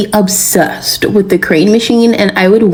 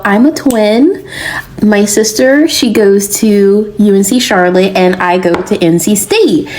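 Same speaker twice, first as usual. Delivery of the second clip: put-on comical Southern accent. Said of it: "in a thick Southern accent, like, a comical one".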